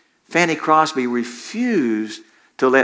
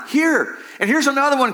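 high-pitched wail of dismay; 11 semitones higher than usual. A narrator's reading. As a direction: wail it out like a storyteller. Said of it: "Corrie wailed".

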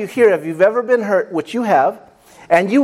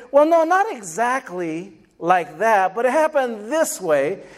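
interrupting spouse. Retold or imitated. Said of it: "the other spouse will jump in".

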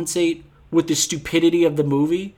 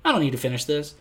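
bored inner mutter; 7 semitones lower, 5 dB quieter than usual. Retold or imitated. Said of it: "and you're like".

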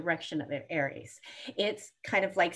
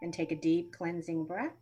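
grounding meditation. Shown as a demonstration. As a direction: guide them calmly into grounding. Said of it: "simple grounding meditation".

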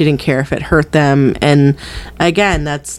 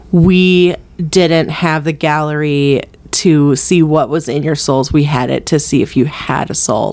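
cold, clinical distance; 2 semitones lower than usual. Retold or imitated. Retelling a headmistress's cruel line to former pupils, coldly distant. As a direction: quote it coolly, measured and unhurried. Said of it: "she says it with just such".

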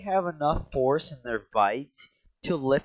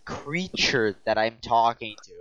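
mock outrage; 3 semitones higher, 3 dB louder, slower than usual. Mock-indignant speech about friend.

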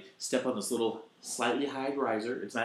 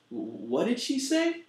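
imitating Stamos; 10 semitones higher than usual. Stamos voiced in story.

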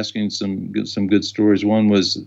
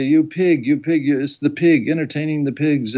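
mock yelling; 5 semitones higher than usual. Comedian tearing into his co-host, mock yelling. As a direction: act out an outraged tirade at half volume. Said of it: "he started yelling and screaming".

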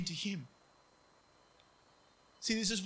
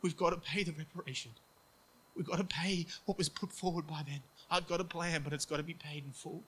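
brokenhearted father. Retold or imitated. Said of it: "a father brokenhearted saying".

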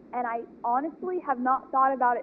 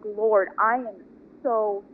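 tearful apology; 3 semitones lower, slower than usual. Retold or imitated. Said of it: "I'm in tears at this point".

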